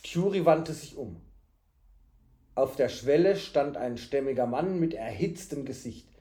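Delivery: measured storybook reading; story narration. A narrator's reading. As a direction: narrate the tale evenly.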